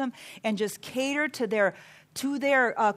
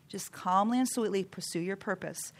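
softer, gentle advice; quietly reassuring; calm and sweet; 3 semitones lower, 5 dB quieter than usual. Shown as a demonstration. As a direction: say it softly and sweetly.

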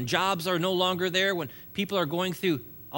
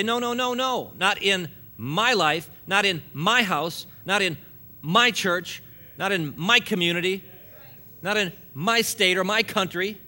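defiant declaration; 2 semitones higher, 4 dB louder than usual. Pretend. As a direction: plant your foot and refuse, louder each time. Declaring defiance against darkness.

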